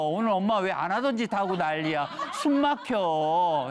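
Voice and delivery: laughing mock whine of a squeezed kid; smothered child. Child stuck in mom's arms for hours, laughing mock whine. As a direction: play a child gasping in mom's too-long hug.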